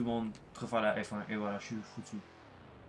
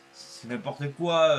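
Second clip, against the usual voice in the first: mock dismissal; 6 dB louder, slower than usual. Slow mocking dismissal.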